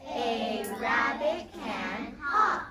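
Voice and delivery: "A rabbit can hop" slowly, each word apart; slow modelled sentence. Shown as a demonstration. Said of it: "Let's say it again".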